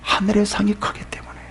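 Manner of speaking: soft, hushed reply; whispered answer. Real, not acted. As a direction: give the reason under your breath. Preacher answers own question.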